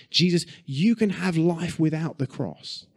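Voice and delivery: pleading Peter. Retold or imitated. Peter urging Jesus to avoid the cross, coaxing. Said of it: "what Peter is essentially saying to him is".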